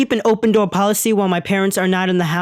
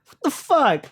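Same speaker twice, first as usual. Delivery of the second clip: stunned disbelief; 4 semitones higher than usual. Retold or imitated. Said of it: "I'm like".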